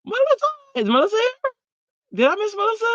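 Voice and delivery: high, eager calls for Melissa; thrilled she might be here; excited search. Real, not acted. Spotting a friend in chat.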